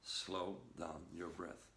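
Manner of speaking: slow and calm. Shown as a demonstration. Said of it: "Two words".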